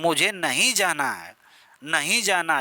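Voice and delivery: नहीं pressed in a refusal; refuse, leaning on नहीं; stress on नहीं. Shown as a demonstration. Teacher showing refusal example, नहीं stressed. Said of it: "यही जो है निपात है".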